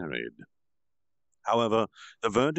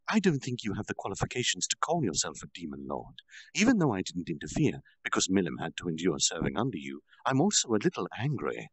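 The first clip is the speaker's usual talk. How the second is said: tranquil fury. Acted. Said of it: "in a tranquil fury".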